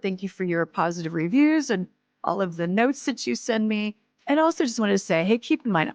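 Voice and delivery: projected, emphatic host sign-off; podcast outro read. Acted. Host thanking listeners and giving a disclaimer, podcast outro read. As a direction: address the whole audience with clear emphasis.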